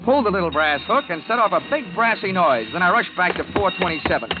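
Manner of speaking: dry, wry detective voiceover; hard-boiled story narration. Acted. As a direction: tell it like a private eye recounting the case.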